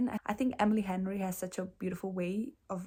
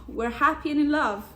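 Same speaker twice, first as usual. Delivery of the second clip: quoting herself dreamily; 5 semitones higher, 5 dB louder than usual. Retold or imitated. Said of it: "not to quote myself".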